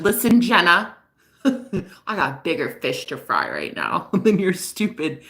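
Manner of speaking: slow, drawn-out mock quote; retold boyfriend's brush-off. Girlfriend retelling his audacity, slow imitation broken by laughs. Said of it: "This man said".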